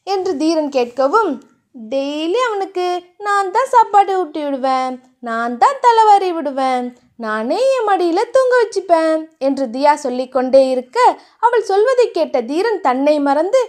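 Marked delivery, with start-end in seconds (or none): 1.7-9.2 put-on higher, doting girlish voice. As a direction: list lovingly how she'll care for him. Narrator voices Thiya.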